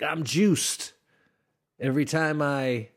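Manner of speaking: playful. Shown as a demonstration. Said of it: "create your own word".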